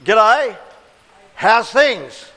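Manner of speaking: casual Australian G'day, how's things; Aussie greeting. Shown as a demonstration. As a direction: say it like a friendly Australian hello. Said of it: "we often say".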